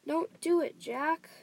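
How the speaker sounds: high, loud frightened cry; screech. A narrator's reading. Giant pleading with Jack in terror, loud high screech. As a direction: screech it like a desperate plea. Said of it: "he screeched".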